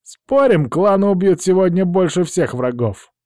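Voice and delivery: high, loud boastful taunt; barbarian. A narrator's reading. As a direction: taunt comrades with a booming boast. Barbarian boasts before battle.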